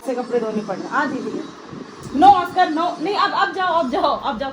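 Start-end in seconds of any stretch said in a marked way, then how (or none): 2.2-4.5 loud, higher warning to the dog; sharp loud no. Real, not acted. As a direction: stop the dog with a sharp call. Stopping the dog. (कुत्ते को तेज़ आवाज़ में रोकना)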